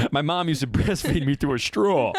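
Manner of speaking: laughing slightly through the punchline; Dangerfield. Acted. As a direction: deliver it as an old-school stand-up gag. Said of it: "This is a Dangerfield joke".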